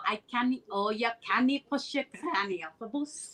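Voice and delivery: Scottish phrase with rolled R's; Scottish accent. Shown as a demonstration. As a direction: demonstrate a Scottish saying for a learner. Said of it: "You gotta roll the".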